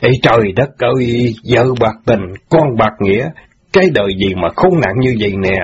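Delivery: a mild beat-the-chest lament. Acted. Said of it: "đấm ngực than rằng". (than thở đau khổ nhẹ)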